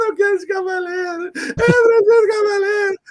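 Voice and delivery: mock child sobbing for her hero; crying child. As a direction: bawl it like a heartbroken little girl.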